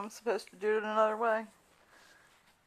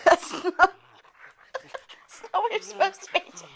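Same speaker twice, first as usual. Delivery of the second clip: talking to a dog; 7 semitones higher, 3 dB louder, slower than usual. Real, not acted. Scolding dog playfully, high voice.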